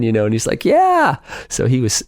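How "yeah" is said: a much higher, squeaky eager yeah; eager yes. Retold or imitated. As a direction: chirp an excited yes as the friend. Yuji eagerly agreeing to go again.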